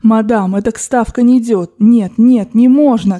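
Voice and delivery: put-on lightly accented, emphatic Frenchman; broken Russian. Frenchman advising a stubborn old lady at roulette, broken Russian. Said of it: "коверкал он по-русски".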